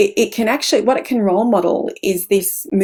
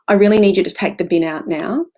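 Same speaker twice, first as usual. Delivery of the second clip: low monotone. Shown as a demonstration. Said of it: "that low monotone voice".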